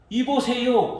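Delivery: 이보세요 high and loud, falling; rude hey you. Retold or imitated. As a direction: snap 이보세요 at the father. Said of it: "하는 거예요".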